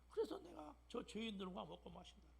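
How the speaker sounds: ordinary talk, nothing marked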